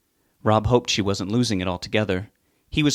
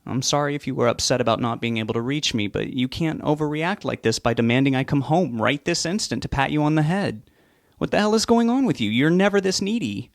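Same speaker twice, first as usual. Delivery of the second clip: exasperated; 5 semitones higher than usual. Acted. Son losing patience.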